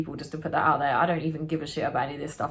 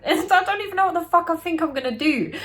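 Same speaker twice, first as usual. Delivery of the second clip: laughing through the words, much higher; laughing disbelief; 10 semitones higher, 4 dB louder than usual. Real, not acted. Telling a friend about the brick, laughing in disbelief. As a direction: crack up at your own madness.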